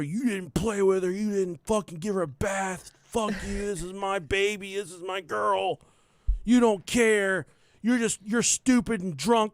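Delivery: half-acted rant at the dad over the dead dog; retold yelling. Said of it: "I'm yelling at her".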